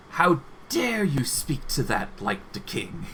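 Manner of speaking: slightly lifted voice, rising to a shout on attack; rally the kobolds into the fight; kobold king battle cry. Acted. Kobold king ordering his tribe to attack, lightly voiced war cry.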